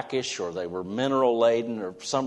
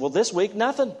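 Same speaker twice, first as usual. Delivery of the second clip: punchline lament; 10 semitones higher, 5 dB louder than usual. Retold or imitated. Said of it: "He said".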